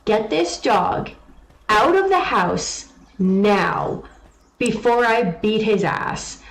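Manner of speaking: slow, firm angry order; stern slow threat. Retold or imitated. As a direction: lay down the law slowly. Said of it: "told Joey".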